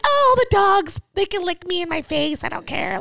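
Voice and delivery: put-on high gushing white-girl voice, trailing down. Self-mocking dog lover welcoming licks, white-girl gushing. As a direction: gush over them up high, then settle. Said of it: "like, a white girl".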